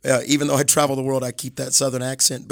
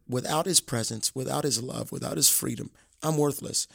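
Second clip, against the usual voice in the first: softer, surrendered inner prayer; humble hushed prayer; 6 dB quieter than usual. Retold or imitated. Voicing humble prayer to God.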